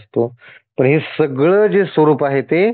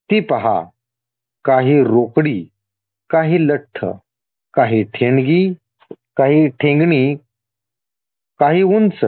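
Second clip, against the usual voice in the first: deliberate list, a pause after each item; measured scripture reading; slower than usual. Acted. God listing his many forms to the devotee, measured reading. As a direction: read it out phrase by phrase. Reads scripture in God's words.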